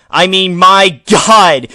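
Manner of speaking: exasperated. Acted. Exasperated outburst.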